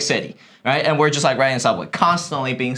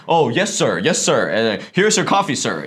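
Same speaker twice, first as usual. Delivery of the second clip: mock-eager, deferential service voice; bouncy, swooping, overly obliging; eager deference; 4 semitones lower than usual. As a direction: imitate an eager barista fawning over a customer. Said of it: "I would get really special treatments".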